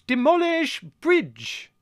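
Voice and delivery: high, loud, drawn-out military roar; roared command. A narrator's reading. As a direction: bellow it slowly like a parade-ground order. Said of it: "roared Colonel Velvet".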